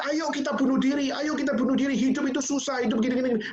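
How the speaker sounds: high, insistent mock exhortation; mimicking blogger's urging. Preacher mimics the blogger persuading readers, mock urging. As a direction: pitch it up, a repetitive imitation of someone persuading. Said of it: "Dia mengajak".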